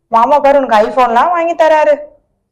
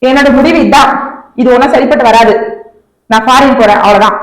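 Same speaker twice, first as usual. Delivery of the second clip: defiant; 3 semitones lower than usual. Acted. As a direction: lay down the law, no discussion. Girlfriend announces she leaves.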